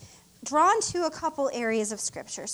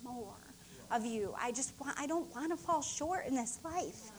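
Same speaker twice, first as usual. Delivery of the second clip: tearful prayer. Retold or imitated. Minister reliving her prayer after a powerful service, hushed then crying out. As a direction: pray from near tears up to crying out. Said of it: "And I was just".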